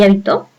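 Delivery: habitó with the stress on TÓ; stress on last syllable. Shown as a demonstration. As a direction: land on the final syllable of habitó. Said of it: "tiene tilde en to".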